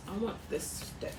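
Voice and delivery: breathy whisper to herself; whispered aside. Real, not acted. Aside to herself, wanting deck.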